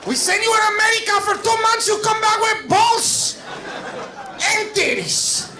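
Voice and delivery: put-on high, slow outraged Latino-accented parent; mock Latino accent. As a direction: scold in a hammed-up Latino accent, high and drawn out. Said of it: "That's what Latinos sound like".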